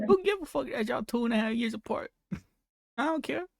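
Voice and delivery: high-pitched scoffing with a laugh; scornful dismissal. Real, not acted. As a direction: brush it off in amused disbelief. Host scoffing at the interviewee's explanation.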